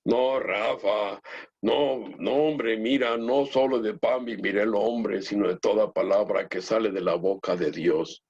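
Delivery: a slow, lightly voiced young boy gently correcting; imitating the boy's voice. Young churchgoer gently correcting the hungry pastor, slow mock voice. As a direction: drawl it out like the earnest boy. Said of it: "así, me, una voz así".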